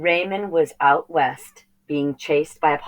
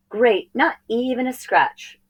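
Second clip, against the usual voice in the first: put-on pleased boy; 8 semitones higher than usual. Raymond's relief.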